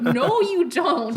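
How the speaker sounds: "No, you don't" said slowly while laughing; laughing denial. Retold or imitated. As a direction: repeat "No, you don't", now cracking up. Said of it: "I'm like".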